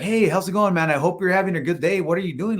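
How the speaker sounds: retold upbeat sales greeting; friendly greeting. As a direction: greet a stranger with a good attitude. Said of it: "trying to have a good attitude".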